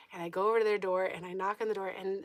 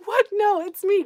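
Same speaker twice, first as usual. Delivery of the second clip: high, loud disbelieving outburst; acted-out panicky insistence; retold alarmed protest; 13 semitones higher, 13 dB louder than usual. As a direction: protest as if your own friends disown you. Retold protest to friends at door.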